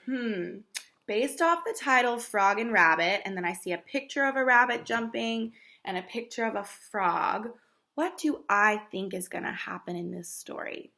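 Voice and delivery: mock pondering student voice; thinking aloud. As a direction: model a child thinking it over. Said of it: "you wanna say".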